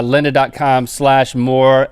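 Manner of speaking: slow, clear URL read. Acted. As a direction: spell the link out slowly.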